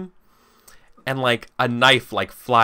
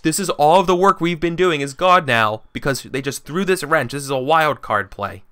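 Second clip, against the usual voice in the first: upset; 5 semitones higher, 4 dB louder than usual. Acted. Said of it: "being like".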